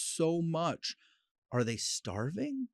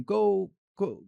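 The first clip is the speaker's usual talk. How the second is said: put-on calling to the kids; 5 semitones higher, 4 dB louder than usual. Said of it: "It's when I tell the kids".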